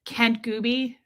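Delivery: "Kent Gooby" run together as a single word; "Kent Gooby" as one quick unit; one-worded name. Shown as a demonstration. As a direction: join "Kent Gooby" with no gap. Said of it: "I'm gonna one word it".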